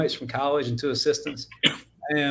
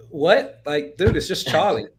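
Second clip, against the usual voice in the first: retold baffled comeback, pitched up; mock protest; 4 semitones higher, 4 dB louder, slower than usual. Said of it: "And I'm like".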